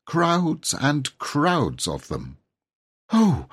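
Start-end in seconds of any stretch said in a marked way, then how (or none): 3.1-3.5 high, loud dismayed exclamation; fervent cry. Acted. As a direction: blurt it out in alarm. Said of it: "said Robert fervently".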